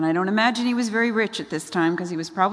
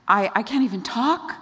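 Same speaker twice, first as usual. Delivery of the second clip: stammered, higher mock protest; freaking out; 4 semitones higher than usual. Moses makes his excuse to God, mildly panicked. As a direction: act out a flustered excuse, lifting at the end. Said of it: "he freaks out".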